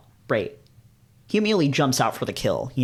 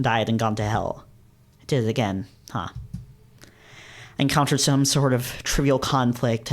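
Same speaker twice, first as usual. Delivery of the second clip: glum first-person inner monologue; story narration. A narrator's reading. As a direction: narrate with a touch of self-reproach. Narrates hero's glum inner thoughts.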